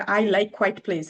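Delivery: "quiet" run into one syllable, like quite; mispronounced quiet. Shown as a demonstration. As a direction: say "quiet" as kwite before "place". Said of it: "তখন ওরা confused হয়ে যায়".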